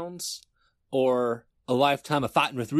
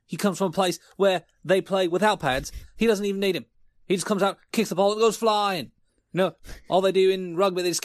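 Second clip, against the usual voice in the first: higher, building hype pitch; 5 semitones higher than usual. Acted. Host hyping the new Australian punter, excited. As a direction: sell him like a hype man.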